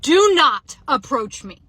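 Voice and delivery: loud, slow, emphatic warning; drawn-out loud command, acted out; retold yell. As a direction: re-enact yelling someone off, word by word. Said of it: "I literally yelled at him".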